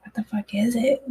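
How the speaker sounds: hushed, unvoiced, worried question; anxious whisper. Asking herself about the bad gut feeling, in a frightened whisper. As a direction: breathe it out under your breath, rising at the end.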